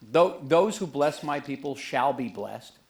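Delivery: slow, weighty Bible reading; solemn scripture quote. Retold or imitated. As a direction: read it like scripture, slowly. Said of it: "where it says".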